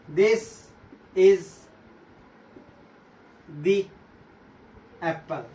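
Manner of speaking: "the" said dee before apple, words split by pauses. Shown as a demonstration. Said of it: "उच्चारण क्या हो जाएगा, दी".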